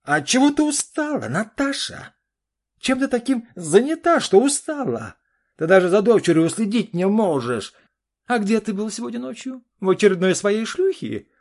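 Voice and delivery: очень высоко и громко, в ярости; кричи в бешенстве; ссора на крике. Acted. (супруги орут друг на друга, очень высоко и громко)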